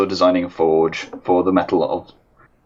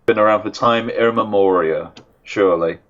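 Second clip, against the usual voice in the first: cave echo. Real, not acted. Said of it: "sounds like a echoey cavern".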